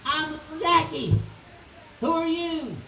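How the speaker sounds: put-on high little-girl voice; little Jackie. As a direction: pipe up high like a small child. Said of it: "little Jackie jumped up and said".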